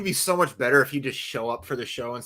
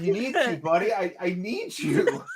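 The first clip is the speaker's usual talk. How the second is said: mock tender plea; 5 semitones higher than usual. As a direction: beg the fan like a lost lover. Pleading with the broken fan.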